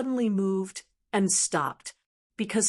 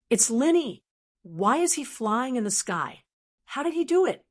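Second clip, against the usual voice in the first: dumbfounded; 3 semitones higher than usual. Acted. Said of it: "He had a dumbfounded expression".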